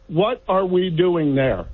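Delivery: ordinary talk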